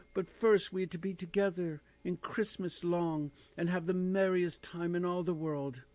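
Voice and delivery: put-on a small girl spilling good news; gleeful child. Little Fan telling her brother about going home, gleeful. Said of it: "brimming with glee".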